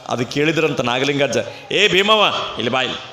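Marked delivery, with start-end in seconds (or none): 1.7-3.0 a hint of an old saint calling her over, rising high; lightly voiced elder beckoning, pitch climbing; old man calling. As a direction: coax her close with high sing-song calls. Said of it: "ಅವ್ರ ಮಾತು ಹಿಂಗೆ ರೀ".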